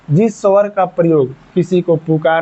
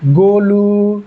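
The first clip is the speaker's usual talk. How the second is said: calling out a name; 4 semitones higher, much slower than usual. Shown as a demonstration. Teacher calls out Golu as an example. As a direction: shout the name to get his attention. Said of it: "इसको कैसे चिल्लाते हैं".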